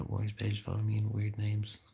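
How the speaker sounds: breathy whispered aside. Acted. Reading a username to viewers, in a whisper. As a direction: whisper it to yourself, amused.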